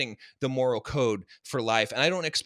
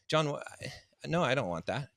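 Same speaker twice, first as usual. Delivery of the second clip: mild, hesitant unease, breaking off mid-word; retold uncomfortable; 4 dB quieter, slower than usual. Coaching client squirming at the coach's medal offer, mildly uncomfortable. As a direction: imitate someone faltering into a reluctant refusal. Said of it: "he was getting uncomfortable".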